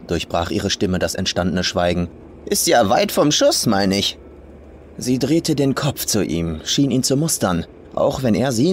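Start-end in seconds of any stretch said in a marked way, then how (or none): 2.4-4.2 put-on rough old farm woman. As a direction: sneer it as the crude old farmer.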